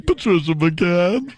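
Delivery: slow sign-off in the ad voice; Patricia McCann impression. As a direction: drag the name out like her ad tag. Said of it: "she got the voice that sounds like this".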